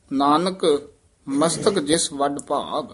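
ਨਾਨਕ alone, then a clear stop; ਨਾਨਕ ਤੇ ਵਿਸਰਾਮ; pause after ਨਾਨਕ. Shown as a demonstration. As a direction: set ਨਾਨਕ apart before ਮਸਤਕ. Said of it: "ਨਾਨਕ ਪਦ ਤੇ ਵਿਸਰਾਮ ਲਾਉਣਾ ਹੈ।".

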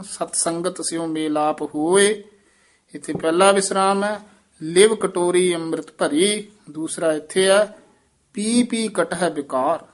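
ਹੋਏ and ਭਰੀ followed by clear pauses; pauses at two points. Shown as a demonstration. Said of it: "ਦੋ ਵਿਸਰਾਮ ਹਨ".

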